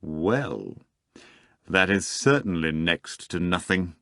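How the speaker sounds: mildly condescending. Acted. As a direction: brush the sum off from above. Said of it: "said condescendingly".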